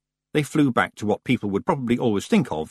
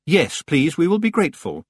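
loud, quick and firm; louder and quicker; 7 semitones higher, 4 dB louder than usual. Acted. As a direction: cut in firmly. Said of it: "louder and quicker".

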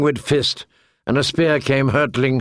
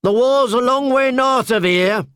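higher jeering voice; mocking; 10 semitones higher than usual. A narrator's reading. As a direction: sneer down at them. Spearman continues.

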